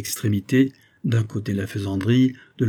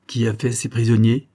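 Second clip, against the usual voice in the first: shouted question; 4 dB louder than usual. Acted. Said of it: "cria-t-il".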